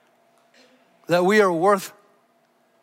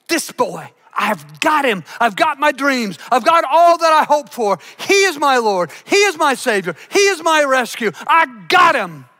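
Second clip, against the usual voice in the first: proud mother crowing over her firstborn, building to a shout; Eve, triumphant; 4 semitones higher, 3 dB louder than usual. Retold or imitated. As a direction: claim the boy as your whole hope, rising loud at the end. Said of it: "And so Eve believes".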